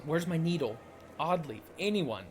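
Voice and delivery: dramatized urgent shouting; urgent calling out. Acted. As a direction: call for help in character. Voices characters urgently calling for help.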